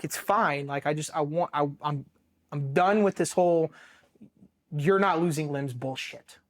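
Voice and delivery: pissed-off venting, partly held in; retold frustration. Marine losing it after his fourth explosion, retold frustration. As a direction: lean on the key words in exasperation. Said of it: "I'm just pissed".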